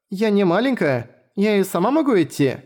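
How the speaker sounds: put-on a little girl insisting she's grown; protesting young girl. Latina protests. (обиженная девочка)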